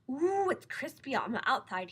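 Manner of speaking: slow, relishing lion voice; savouring lion. A narrator's reading. Lion relishing his first marshmallow bite. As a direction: savour every word.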